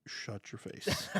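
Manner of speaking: unvoiced, slow mock scold; playful shut up. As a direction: hiss it in playful annoyance.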